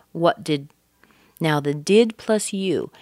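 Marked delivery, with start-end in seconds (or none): 0.1-0.7 "What did" with the stop held, then released on D; held connection. Shown as a demonstration. Teacher shows the longer stop linking "What did". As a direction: hold the T-D closure firmly in "What did". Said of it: "hold it a little bit longer and stronger".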